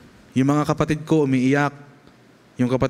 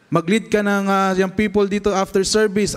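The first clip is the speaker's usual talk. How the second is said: father's request; 7 semitones higher than usual. Retold or imitated. Father asks son to lead.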